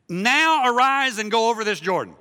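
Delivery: loud, high, booming scripture command; commanding order. Retold or imitated. Preacher voices God's order after Moses' death, loud and commanding. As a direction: punch out the acted order forcefully.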